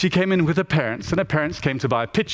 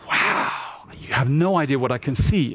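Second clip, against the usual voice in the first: put-on awestruck child. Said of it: "the room went silent, and she said".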